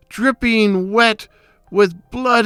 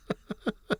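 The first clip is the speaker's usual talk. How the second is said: quiet gloating chuckle; 16 dB quieter than usual. Acted. Gloats over the hidden remains.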